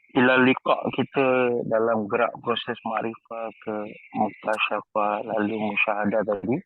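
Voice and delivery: normal talking voice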